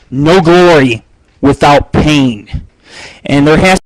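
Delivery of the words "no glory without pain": slow grave slogan. Acted.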